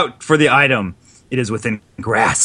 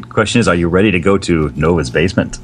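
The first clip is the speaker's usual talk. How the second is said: gruff hero; 8 semitones lower than usual. Retold or imitated. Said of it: "repeats the mystery man line".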